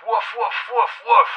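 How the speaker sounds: spoken woofs like a dog; short playful woofs; dog barks. Acted. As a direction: imitate a dog barking. Buster barks into the phone.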